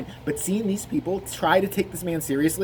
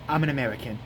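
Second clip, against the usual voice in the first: drowsy interviewer impression; 3 semitones lower, faster than usual. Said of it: "He's like".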